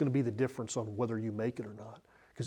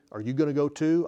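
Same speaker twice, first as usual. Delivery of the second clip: mildly sarcastic question; 2 semitones higher, 4 dB louder, faster than usual. Shown as a demonstration. Preacher showing one reading of Jesus' question, mildly sarcastic. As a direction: toss out the question with a touch of sarcasm.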